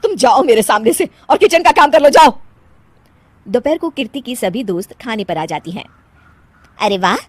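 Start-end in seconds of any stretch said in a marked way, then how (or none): 0.0-2.4 forceful dismissal, louder on the last word; annoyed order. Acted. Mother-in-law banishes her to the kitchen, annoyed. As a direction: send her off crossly.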